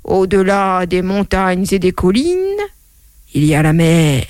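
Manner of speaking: a hint of a great-grandfather reciting; great-grandfather's saying. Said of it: "mon arrière-grand-père qui disait".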